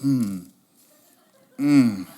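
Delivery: mock "mm" of enjoyment; imitated savouring hum. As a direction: hum as if relishing a bite. Imitates wife relishing her toast.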